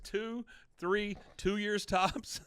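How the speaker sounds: "Two, three, two years tops" swung high in an up-and-down tune. Retold or imitated. Doubting the weather girl's future, "two years tops" in a see-saw tune. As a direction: lift and drop the pitch through "Two, three, two years tops", slowing on "tops". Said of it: "up, down, up, down".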